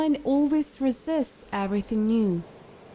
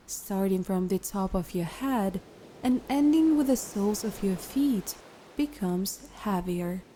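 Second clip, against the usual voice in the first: calm, unhurried guided meditation voice; 6 dB quieter than usual. Acted. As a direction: guide a listener into relaxation, leaving long pauses.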